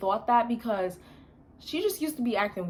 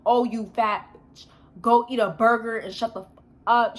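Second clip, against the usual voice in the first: mock angry insult; 5 dB louder than usual. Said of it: "She was like".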